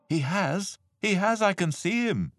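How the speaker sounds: high, excited exclamation; excited elephant. A narrator's reading. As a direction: blurt it out high, sure of the sighting. Elephant excitedly spots the fallen cousin.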